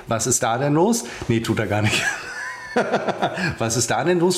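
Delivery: giggling commentary; laughing. Real, not acted. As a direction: laugh through the question.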